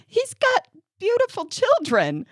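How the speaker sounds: mock pity. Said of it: "this standard".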